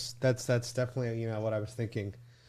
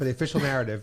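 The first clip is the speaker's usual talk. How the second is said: sarcastic; faster than usual. Pretend. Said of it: "We gotta stick to the party's narrative".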